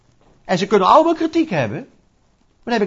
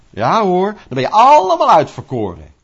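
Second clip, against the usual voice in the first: mocking quote; 5 dB louder than usual. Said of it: "gaan we zeggen".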